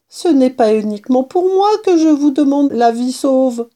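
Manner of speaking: high-pitched, earnest little plea; pleading mouse. A narrator's reading. Mouse pleading with the kitten for her life, high and imploring.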